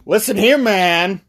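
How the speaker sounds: high, lightly voiced questioner; eager guy voice. Guy at the bar asks about spooky business, high voice. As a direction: pitch it up to get the stranger's attention. Guy approaches the mysterious dude.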